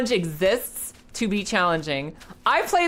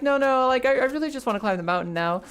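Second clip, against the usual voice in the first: put-on higher, insistent young man refusing help; Nate's stubborn voice; 6 semitones higher than usual. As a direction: push back, a little higher and quicker. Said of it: "And Nate's like".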